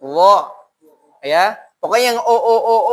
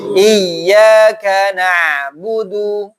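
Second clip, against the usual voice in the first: slow, chanted tajwid recitation; Quran recitation; much slower than usual. Shown as a demonstration. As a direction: recite the verse slowly, melodically. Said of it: "Bareng-bareng ya".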